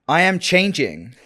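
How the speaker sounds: hammed-up slow Californian delivery; California accent attempt. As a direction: draw it out in a put-on California accent.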